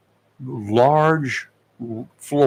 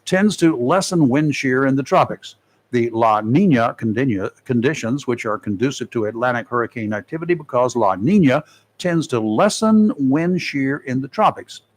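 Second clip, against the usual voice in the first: measured announcer read, key figures leaned on; presenting a forecast to listeners; radio weather report. Acted. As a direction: read it like a radio hurricane bulletin. Resumes the report.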